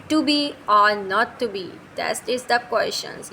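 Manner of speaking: slow, measured recital of the famous line; quoting Hamlet. Shown as a demonstration. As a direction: recite it as a set quotation. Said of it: "Hamlet में".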